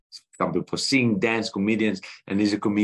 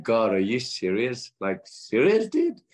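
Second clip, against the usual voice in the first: retold exasperated plea to God, pitch leaping; half-joking outraged disbelief; incredulous protest; 3 semitones higher, slower than usual.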